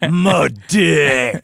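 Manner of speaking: loud blunt "My dick"; mock deadpan quote. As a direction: punch it out as a lightly voiced other guy. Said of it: "hear his voice in my head going".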